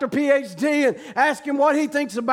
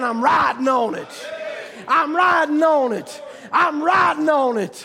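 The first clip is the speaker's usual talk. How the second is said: joyful shouting; 2 semitones higher than usual. Retold or imitated. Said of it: "screaming to the top of his lungs".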